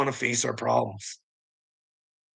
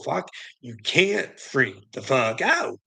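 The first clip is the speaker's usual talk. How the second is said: slow self-warning; slower than usual. Retold or imitated. Tells himself to stay calm.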